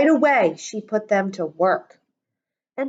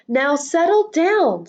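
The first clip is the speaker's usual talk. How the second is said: sweet voice; 6 semitones higher, 4 dB louder than usual. Acted. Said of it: "said Miss Nelson in a sweet voice".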